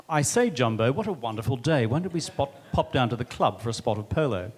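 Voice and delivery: lampoon a pompous English club man; posh English establishment. Retold or imitated. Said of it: "an English establishment git".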